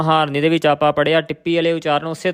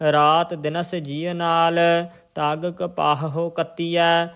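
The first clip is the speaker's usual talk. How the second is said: measured Gurbani recitation on a level tone; intoned Sikh scripture reading; much slower than usual. Shown as a demonstration. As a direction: recite the verse evenly, drawing out line endings.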